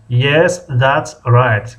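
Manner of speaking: "Yes, that's right" spaced out word by word; slow model phrase. Shown as a demonstration. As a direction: repeat "Yes, that's right" slowly for learners. Teacher repeats the reply slowly. («Yes, that's right» آهسته و کلمه به کلمه)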